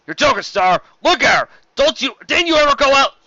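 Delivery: incredulous outburst. A narrator's reading. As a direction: protest in disbelief. Arguing with his officer.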